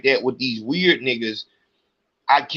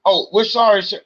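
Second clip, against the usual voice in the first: mock politeness; 5 semitones higher than usual. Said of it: "If a white man has an issue".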